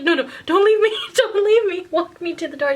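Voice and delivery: high comic begging; mock pleading. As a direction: beg her not to go, half laughing. Pleading with friend.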